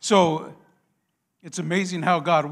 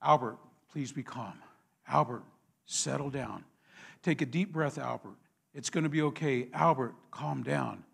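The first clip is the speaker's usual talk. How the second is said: calm soothing; 3 semitones lower, 4 dB quieter than usual. Retold or imitated. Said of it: "he's saying".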